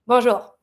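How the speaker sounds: teacher modelling bonjour; French bonjour. Shown as a demonstration. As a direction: say bonjour the French way, rolled back r.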